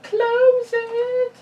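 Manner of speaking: high, loud urging yell; excited shout. Real, not acted. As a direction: yell at the dice. Urging the dice.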